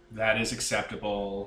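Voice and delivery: slow, low, flat monotone voice. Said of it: "I went out of my way to make him monotone".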